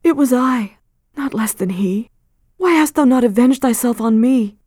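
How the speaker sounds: high, loud, anguished plea with a whispered middle; anguished Hester. Acted. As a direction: cry out her guilt.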